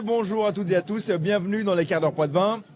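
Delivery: hoarse, losing his voice; straining a hoarse voice to be heard. Real, not acted. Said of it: "j'ai plus de voix". (voix enrouée, presque éteinte)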